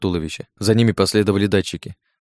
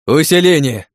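loud, higher bark; barked command; 6 semitones higher, 6 dB louder, slower than usual. Acted. Hero barks a command to his AI, loud. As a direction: snap the order out hard. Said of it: "гаркнул я команду".

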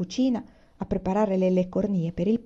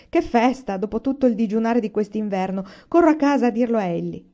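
thrilled; 3 semitones higher, 5 dB louder than usual. Acted. Mr Boast thrilled by the invitation.

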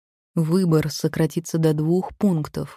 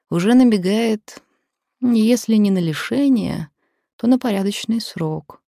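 louder, higher, pressing the threat; menacing, raised voice; 6 semitones higher, 5 dB louder than usual. A narrator's reading. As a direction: lean in hard with the threat. Blackmailer pressing the librarian.

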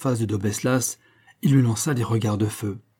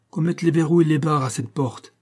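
higher voice, trembling with rage; shaking with anger; 6 semitones higher than usual. Acted. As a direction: spit the order out in fury. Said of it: "d'une voix tremblante de colère".

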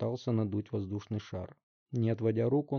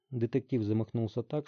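plain reading voice

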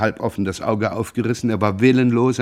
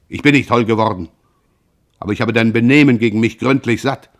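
firm, louder, drawn up tall; a brother drawing himself up, indignant and louder; 5 dB louder than usual. Acted. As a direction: push back hard, offended. Brother angrily confronts Pierre.

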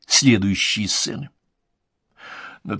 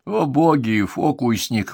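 grumbling; 4 semitones higher, slower than usual. Acted. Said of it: "угрюмо буркнул".

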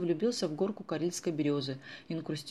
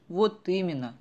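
louder glad agreement; pleased; 3 semitones higher, 6 dB louder, slower than usual. Acted. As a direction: agree with relief and joy. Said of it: "обрадовалась". (радостно соглашаясь)

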